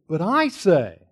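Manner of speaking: "I" stressed, words slowed; emphatic I. Shown as a demonstration. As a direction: lean hard on "I", slowly. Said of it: "in the Greek is emphatic I".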